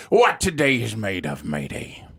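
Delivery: low pirate growl; a pirate calling his crew. Acted. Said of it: "awesome impersonation of a pirate".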